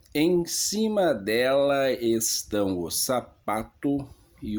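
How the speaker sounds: leitura teatral declamada, levemente enfática; leitura de rubrica. Acted. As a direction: ler a rubrica em tom de palco, pausadamente. Lê as rubricas da peça. (leitura dramatizada de rubrica)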